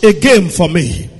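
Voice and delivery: high, shouted repeated questions; preaching shout. Real, not acted. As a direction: drive each line up and out.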